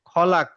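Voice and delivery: খলাক with a small echoing bounce on the final ক; qalqalah bounce. Shown as a demonstration. Teacher shows the class the qalqalah bounce on kaf. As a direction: let the last ক of খলাক pop out with a light echo. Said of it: "বলে একটু bounce করলাম".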